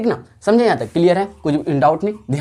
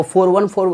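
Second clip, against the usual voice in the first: "फ़ोर वन फ़ोर" said digit by digit; digits read separately; 3 semitones higher than usual. Shown as a demonstration. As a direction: give फ़ोर, वन, फ़ोर each as its own word. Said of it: "अलग-अलग करके पढ़ेंगे".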